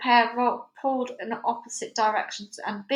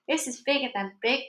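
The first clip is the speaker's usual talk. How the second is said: panicking sheriff; 3 semitones higher than usual. Acted. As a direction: flap about like a flustered small-town sheriff. Sheriff's excited panic speech.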